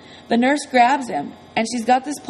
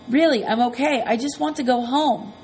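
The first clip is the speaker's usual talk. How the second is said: hoarse pleading croak; croaky voice; 3 semitones higher than usual. Retold or imitated. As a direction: croak it insistently. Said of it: "trying to talk in this croaky voice".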